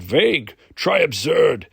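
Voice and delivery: loud, high-swooping disbelief; indignant outburst. A narrator's reading. Brune scoffs at his arm wrestling loss, loud indignation. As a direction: throw it back in exasperation.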